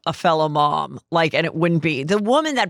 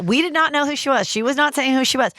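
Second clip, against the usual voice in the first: higher bright mock TikTok voice; mocking the girl's video; 6 semitones higher, faster than usual. Retelling the viral girl's TikTok, mocking her higher voice. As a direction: imitate the girl starting her video, high and chirpy. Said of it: "she's like".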